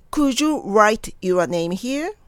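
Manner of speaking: slow repeat-after-me model, 'write' starting from 'oo'; drawn-out R. Shown as a demonstration. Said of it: "うの発音しても練習の時は構いません". (「write」を「う」の口からゆっくりRへ)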